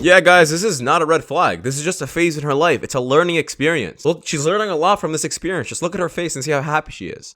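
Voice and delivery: dry sarcasm posing as reassurance; sarcastic. Real, not acted. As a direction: pretend to defend her, tongue in cheek. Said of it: "I'm being sarcastic".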